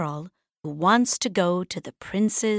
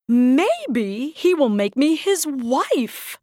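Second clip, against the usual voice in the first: eager sister; 6 semitones higher, 4 dB louder than usual. Acted. Sister dreams of marrying prince.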